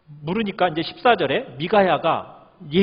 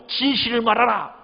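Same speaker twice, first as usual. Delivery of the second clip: higher-pitched, mildly cross command; irritated demand; 4 semitones higher than usual. Acted. King demands the truth from the prophet, mildly angry. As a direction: press for an answer with a touch of irritation. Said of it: "역정내는 거죠".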